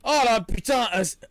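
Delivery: loud panicked voice after a scare; frightened swearing. Real, not acted. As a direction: blurt it out in fright. Another jump scare.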